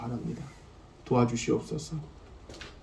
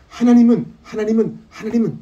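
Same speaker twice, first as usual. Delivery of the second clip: ringing, higher proclamation of God; proclaiming declaration; 10 semitones higher, 7 dB louder than usual. Shown as a demonstration. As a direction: declare it boldly from the pulpit. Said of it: "이렇게 선포하시며".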